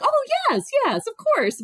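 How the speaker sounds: breathless high-pitched delight; excited yes. Retold or imitated. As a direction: gush the yes, overjoyed. Accepting a surprise proposal.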